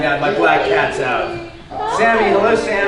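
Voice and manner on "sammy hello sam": higher-pitched hello to a cat; pet-greeting voice; calling a pet. Real, not acted. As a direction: call the cat in a lifted voice.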